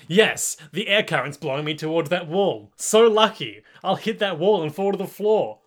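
lightly hammed-up relief at a lucky break; mock triumph. Cocky stand narrating his escape plan to himself, mock triumph. Acting the stand's gleeful planning.

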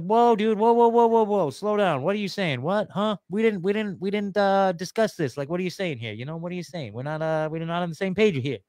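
imitating bewildered protest, easing off after the first burst; mock alarmed protest. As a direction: act out someone baffled and pumping the brakes. Acting out Palestinians objecting in alarm.

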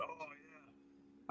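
whispered, barely-there imitation; imitated hushed reaction. Imitating a friend reacting to a picture, hushed whisper.

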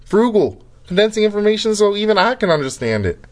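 excited pitch. Acted. Upbeat ad closer.

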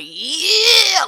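high, loud cheering "yeah"; excited shout. Retold or imitated. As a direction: yell it out like a thrilled fan. Acting out her excited reaction.

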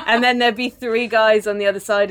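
talking through laughter; laughing through words. Real, not acted. Host describing the show, talking through laughter. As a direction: laugh while telling it.

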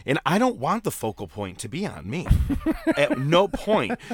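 hammed-up self-important ref, slowing at the end; mock overacting ref. Mocking her overacting on the broadcast, hammed-up. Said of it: "overacting as she does".

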